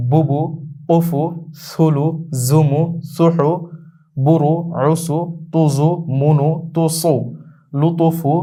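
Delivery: each syllable pair drawn out slowly and clearly; slow, deliberate teacher's drill; slow drill recitation. Shown as a demonstration. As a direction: chant them one by one like a reading drill. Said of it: "দুটো হরফ দিয়ে আমরা উ দিয়ে পড়ব".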